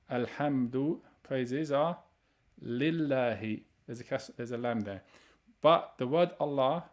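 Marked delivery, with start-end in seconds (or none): 2.6-3.6 "lillahi" drawn out slowly with a doubled l; slow demonstration. Shown as a demonstration. Teacher isolating the word for students, slow.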